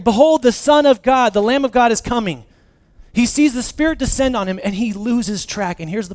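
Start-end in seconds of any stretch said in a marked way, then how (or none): 0.0-2.4 preacher voicing John's loud declaration; proclaiming loudly. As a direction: announce it like a herald to the crowd. John declaring Jesus, preached loudly.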